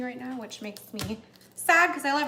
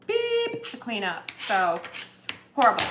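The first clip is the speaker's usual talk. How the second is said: exasperated; 6 dB louder than usual. Real, not acted. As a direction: moan about the mess. Complaining about messy kitchen.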